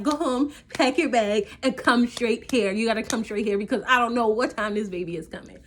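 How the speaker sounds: loud, firm commands; urgent orders. Retold or imitated. Ordering boyfriend to come.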